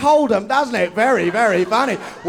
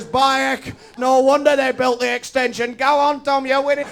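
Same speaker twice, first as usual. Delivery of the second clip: northern bloke; 4 semitones higher than usual. Retold or imitated. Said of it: "amicable northern stereotype".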